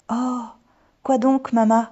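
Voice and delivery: put-on high, loud little-girl question; eager curiosity. A narrator's reading. Daughter begs mother for the surprise, eagerly curious.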